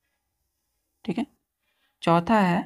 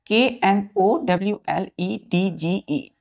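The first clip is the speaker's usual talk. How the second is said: spelled out slowly; slower than usual. Shown as a demonstration. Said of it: "जैसे मैंने कहा आपको".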